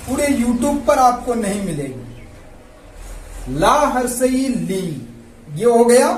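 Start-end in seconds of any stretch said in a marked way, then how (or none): 3.5-5.1 slow, syllable by syllable; slow spelling drill. Shown as a demonstration. Teacher sounding out a syllable slowly for pupils. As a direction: sound out each part slowly for the class. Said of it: "अब ल में लगा लीजिए आप".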